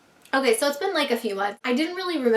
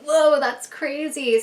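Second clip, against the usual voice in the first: amazed whoa; 4 semitones higher, 4 dB louder, much slower than usual. Retold or imitated. Amazed at accurate psychic reading.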